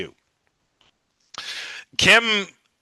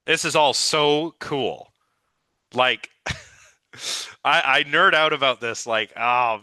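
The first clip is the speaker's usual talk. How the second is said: real, mildly giddy enthusiasm; geeky excitement. Real, not acted. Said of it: "I'm getting a little too excited here".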